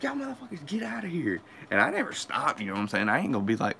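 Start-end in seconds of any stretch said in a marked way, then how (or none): 0.0-1.4 retold shooing. Yelling at watching friends.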